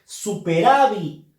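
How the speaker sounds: "Superávit" con fuerza en "rá"; acento en penúltima sílaba. Shown as a demonstration. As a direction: marca bien la "rá" de "Superávit". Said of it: "la fuerza de voz". ("Superávit" cargando la voz en la penúltima)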